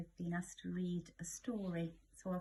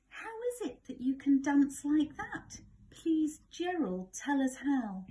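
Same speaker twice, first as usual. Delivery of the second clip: higher, louder eager begging; eager pleading; 6 semitones higher, 8 dB louder than usual. Acted. Animals begging Gerald to teach them, eager loud pleading. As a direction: plead excitedly for the secret. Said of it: "They shouted".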